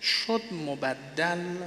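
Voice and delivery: شد مبدل drawn out very slowly, word by word; slow dictation pace. Shown as a demonstration. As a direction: dictate شد مبدل slowly so they can write.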